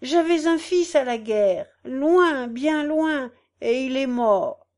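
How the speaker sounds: acted grieving plea; tearful old woman. A narrator's reading. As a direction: lament like a weeping old mother. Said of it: "une vieille femme qui pleurait".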